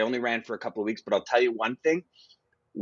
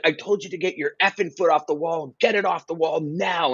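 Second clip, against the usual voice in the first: angry customs agent; 5 semitones higher than usual. Retold or imitated. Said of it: "And he's like".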